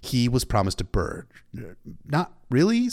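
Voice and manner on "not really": high-pitched aside; character's inner voice. A narrator's reading. Sam thinking about the promised bird, high-pitched aside. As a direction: answer privately in a high voice. Sam's rueful thought in story.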